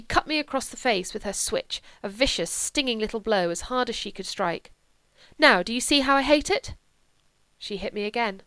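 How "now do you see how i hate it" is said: loud, high furious challenge; angry. Acted. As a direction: hurl it at him in rage. She strikes him in anger.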